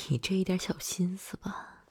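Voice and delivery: soft chuckling tease; amused indulgence. Acted. Teasing a partner over their little scheme, amused. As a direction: let a quiet laugh lead in, indulgently.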